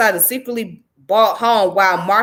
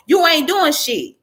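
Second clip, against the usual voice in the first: raised, quick blunt dismissal; angry retort; 5 semitones higher than usual. Real, not acted. Vlogger dismissing the activists, raised and blunt. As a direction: snap it at her.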